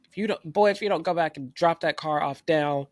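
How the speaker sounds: stern uncle. Retold or imitated. Uncle threatening his nephew to return the car, stern. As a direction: scold like an angry uncle. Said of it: "Matt's uncle told him".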